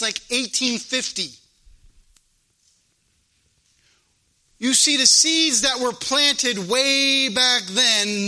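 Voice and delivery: emphatic pulpit preaching; firm preacher, stretching key words. Real, not acted. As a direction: drive the point home to a congregation. Preaches to the congregation.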